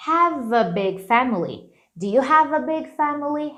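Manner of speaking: "have a" run together as "hava"; have a linked. Shown as a demonstration. Teacher showing the natural link in have a. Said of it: "Faz uma conexão natural".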